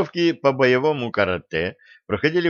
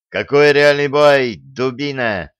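louder, slow angry interruption; cutting in angrily; 3 semitones higher, 7 dB louder, slower than usual. Acted. Coach cuts off Denis's excuse, angry and loud. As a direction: snap him off mid-excuse. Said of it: "оборвал Дениса тренер".

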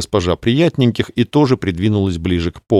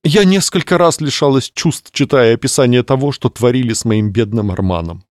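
plaintive lady; 3 semitones higher than usual. Acted. Clarissa fainting story.

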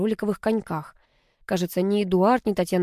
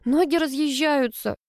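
whimpering; 7 semitones higher than usual. A narrator's reading. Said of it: "прохныкала Алла".

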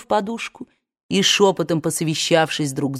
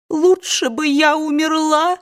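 higher, sobbed wail; sobbing; 10 semitones higher than usual. A narrator's reading. Scarlett sobs into the pillow, wailing. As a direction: lose yourself in the sob. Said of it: "самозабвенно всхлипывала она".

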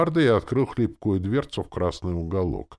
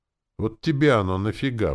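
mildly surprised, higher and louder; raised-pitch puzzled question; 5 semitones higher, 5 dB louder than usual. A narrator's reading. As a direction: ask with sudden bafflement. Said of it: "удивился я".

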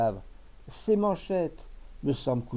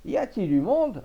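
louder, higher call, more insistent; calling again louder; 8 semitones higher, 6 dB louder than usual. Acted. Old farmer calling again into the empty shop, louder. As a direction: raise the voice, nobody answered. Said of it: "répéta Maître Poivret".

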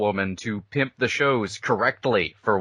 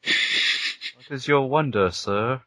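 Pinhead voice; slower than usual. Pretend. Pinhead parody.

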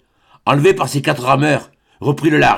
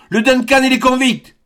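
horrified cry; 9 semitones higher than usual. A narrator's reading. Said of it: "s'écria Glenarvan".

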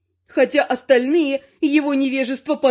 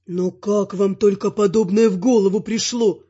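stunned vampire; 6 semitones lower than usual. A narrator's reading. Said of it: "Ошеломлённо спросил вампир".

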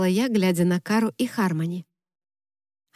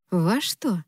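wary. Acted. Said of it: "настороженно спросила я".

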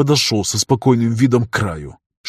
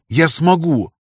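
stubborn insistence; 6 semitones higher, slower than usual. A narrator's reading. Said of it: "упрямо произнёс я".

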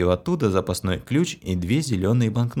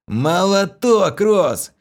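chuckling; 11 semitones higher, 5 dB louder, much slower than usual. A narrator's reading. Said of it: "хохотнул Влас".

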